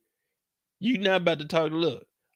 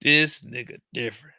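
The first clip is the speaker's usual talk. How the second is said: mock repeat; 2 semitones lower than usual. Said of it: "I said".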